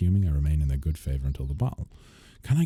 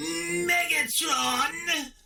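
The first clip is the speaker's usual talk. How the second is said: weird-sounding put-on robot voice, sometimes higher. Trying a quick impression after comparing a sound: Starscream voice. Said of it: "That sort of weird sounding voice that Starscream has".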